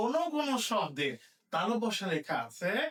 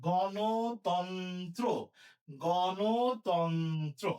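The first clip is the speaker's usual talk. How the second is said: গণতন্ত্র stretched with a rising end; very slow dictation; 2 semitones lower, much slower than usual. Shown as a demonstration. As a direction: crawl through গণতন্ত্র for the class. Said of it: "কি লিখবো?".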